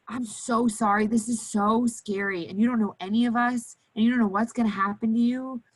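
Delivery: soothing nurse voice. Shown as a demonstration. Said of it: "My voice, my body language, everything else changes".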